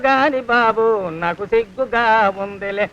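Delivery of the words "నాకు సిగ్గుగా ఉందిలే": softer and lower, shyly, a little slow; bashful. Acted. Cycle man to master about riding on his cycle, bashful and soft. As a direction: say "నాకు సిగ్గుగా ఉందిలే" softly, lower, a little slow, shying away. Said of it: "నాకు సచ్చే సిగ్గుగా".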